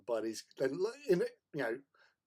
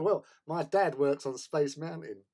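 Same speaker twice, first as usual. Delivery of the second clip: put-on slow, higher, louder American accent; 4 semitones higher, 6 dB louder than usual. Bluffing the kids about his dad, boastful American accent. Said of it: "put on this American accent".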